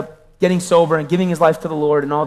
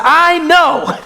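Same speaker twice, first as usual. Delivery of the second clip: high laughing admission; 9 semitones higher, 3 dB louder than usual. Retold or imitated. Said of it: "And I said".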